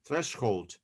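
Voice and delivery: "threshold" as THRESH-hold, falling tone; pronunciation demo. Shown as a demonstration. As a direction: model the word "threshold" with "sh" then "hold". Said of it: "Yes, like that".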